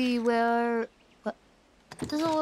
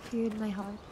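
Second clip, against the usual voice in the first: fading to a hushed mock lament; mock dramatic lament; 4 semitones lower, 8 dB quieter than usual. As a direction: sink into a soft, dramatic lament.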